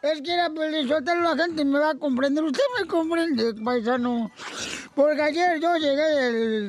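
put-on slurring drunk, half sobbing; drunk crying. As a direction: play a weepy drunk pleading with a friend. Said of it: "¿Por qué está borracho y todo llorando?". (borracho llorando, arrastrando las palabras)

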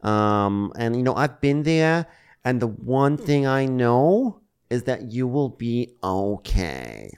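slow soothing voice. Retold or imitated. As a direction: comfort her slowly. Voicing soothing Gina.

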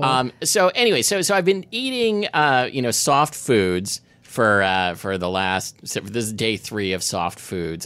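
speech thick from a swollen mouth; careful words around a swollen lip. Real, not acted. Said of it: "my voice sounds all funny 'cause my mouth is all swollen".

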